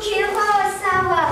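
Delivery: gibberish word. Acted. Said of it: "il parle une langue inconnue".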